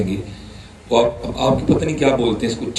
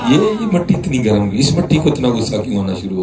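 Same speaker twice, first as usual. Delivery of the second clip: building to a raised, higher cry; rising preaching; 7 semitones higher than usual. Real, not acted. Preacher crying out to the congregation, raised and high. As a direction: press the question harder each time.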